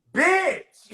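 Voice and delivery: squealed bitch. Retold or imitated. Friend imitating her reaction, a giddy high shriek.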